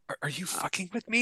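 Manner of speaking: soft, weary muttered disbelief; tired disbelief. Retold or imitated. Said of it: "I was tired and I'm like".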